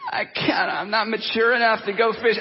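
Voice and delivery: hammed-up whimper of a helpless husband; mock whine. Husband to wife about her purse, mock whine. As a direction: whine it like a man-child, half laughing. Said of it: "And it's like".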